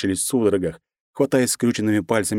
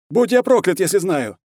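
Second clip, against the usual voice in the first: high, loud, strained voice; terrified and overwhelmed; desperate soldier; 10 semitones higher, 4 dB louder than usual. A narrator's reading. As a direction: soldier panicking in battle. Soldier in firefight.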